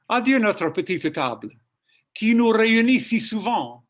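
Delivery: "Adieu, notre petite table" spoken as one even French phrase; smooth spoken French. Shown as a demonstration. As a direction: say "qui nous réunit si souvent" without any bumps. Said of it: "spoken language doesn't have any bumps".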